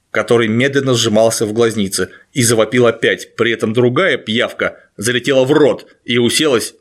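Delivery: low, even audiobook reading; story narration. A narrator's reading. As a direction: read it like a horror audiobook. Reads Stephen King excerpt aloud.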